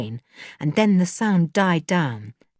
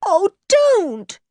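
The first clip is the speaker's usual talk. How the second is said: high, distressed plea; tearful high-pitched cry; almost in tears; 13 semitones higher, 4 dB louder than usual. A narrator's reading. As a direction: plead as if about to cry. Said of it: "almost in tears".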